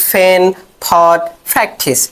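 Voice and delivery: ফ্যান, থট, প্র্যাকটিস with an aspirated opening; ফ্যান থট প্র্যাকটিস slowly, aspirated; aspirated p demo. Shown as a demonstration. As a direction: puff the first sound of ফ্যান, থট and প্র্যাকটিস. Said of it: "ভ দিয়ে করব".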